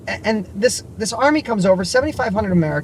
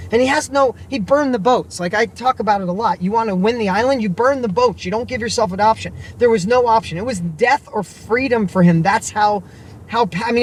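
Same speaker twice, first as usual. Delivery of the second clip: fired up, preaching his point; excited; 3 semitones higher than usual. Real, not acted. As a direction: pitch raised, rushing to the punchline. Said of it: "I get excited over this".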